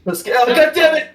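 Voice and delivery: high, loud, laughing exclamation; exasperated outburst. Real, not acted. Player reacting to a stupid name joke, exasperated outburst.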